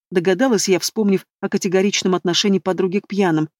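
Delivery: ordinary delivery, nothing marked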